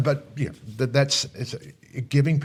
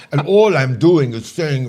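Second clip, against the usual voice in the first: loud imitation of a Russian speaker; hammed-up Russian accent; mock Russian accent; 5 semitones higher, 10 dB louder than usual. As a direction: protest in a put-on Russian accent, higher and louder. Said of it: "people come to me and say".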